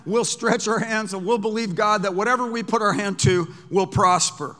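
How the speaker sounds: ordinary delivery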